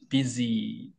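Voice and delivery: "busy" with the final ee drawn out; long vowel. Shown as a demonstration. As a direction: say "busy" softly, stretching its vowel. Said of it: "장모음입니다".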